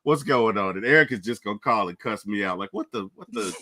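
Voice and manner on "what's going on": low, quiet, puzzled brother voice; mock a confused little brother; imitating baby brother. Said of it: "he's gonna come and be like".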